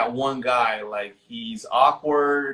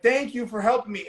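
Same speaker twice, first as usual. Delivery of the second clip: higher-pitched mock plea; retold pleading; 9 semitones higher, faster than usual. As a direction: imitate a desperate plea, lightly acted. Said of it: "she's pleading for her life".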